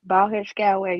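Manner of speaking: hammed-up playful "bald-headed scallywag"; mock insult. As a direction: throw it out like a cheeky pirate taunt. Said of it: "That's how you do that".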